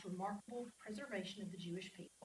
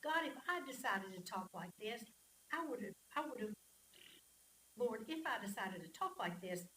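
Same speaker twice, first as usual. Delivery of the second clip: emphatic psalm read-aloud; expressive scripture reading; 6 dB louder than usual. Acted. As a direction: read the psalm out with feeling, leaning on key words.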